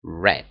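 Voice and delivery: "read" said "red", short and low; "read" like the colour red; past read. Shown as a demonstration. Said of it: "it will sound".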